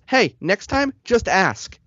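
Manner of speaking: high, snide driver voice; imitating driver. Driver lectures him on asking, mimicked high and snide. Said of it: "He goes".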